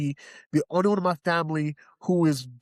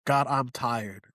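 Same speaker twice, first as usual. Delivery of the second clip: weary prayer; 3 semitones lower, slower than usual. Retold or imitated. Retold weary prayer to God.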